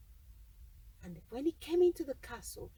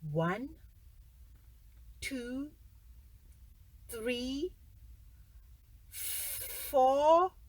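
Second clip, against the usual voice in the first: giant counting; much slower than usual. Acted. Giant counting golden eggs.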